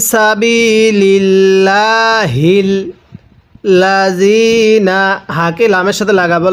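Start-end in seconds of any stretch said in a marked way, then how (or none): 0.1-5.0 সাবিলিল্লাহিল with thin, light lam in Allah, slowly recited. Shown as a demonstration. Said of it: "তাহলে কিভাবে পড়ব?".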